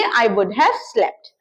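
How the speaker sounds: I would have slept dragged out slowly; teacher's slow example; slow model sentence. Shown as a demonstration. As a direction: spell out the phrase slowly. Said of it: "तो आप बोलेंगे".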